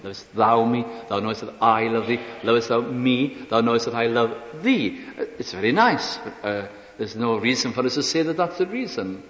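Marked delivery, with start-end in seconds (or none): 0.0-2.2 "thou" lifted in the question, then "I" stressed in the answer; emphasis moved to "thou" and "I". Shown as a demonstration. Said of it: "people put different emphasis on it". 2.4-5.0 "me" stressed, "thee" falling at the end; emphasis on the last words, "me" and "thee". Shown as a demonstration. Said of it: "people put different emphasis on it".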